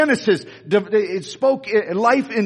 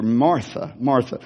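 compassionate; 7 semitones lower than usual. Retold or imitated. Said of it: "he was compassionate".

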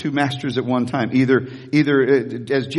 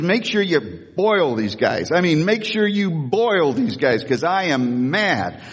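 mock tantrum; slower than usual. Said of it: "He's doing a, a tantrum".

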